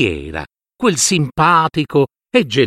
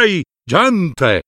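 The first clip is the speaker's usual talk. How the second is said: threatening; 3 semitones higher than usual. Acted. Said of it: "gridava loro con voce minacciosa".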